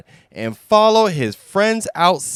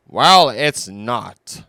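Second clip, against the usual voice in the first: annoyed; 3 semitones lower, 4 dB louder than usual. Acted. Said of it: "becoming annoyed".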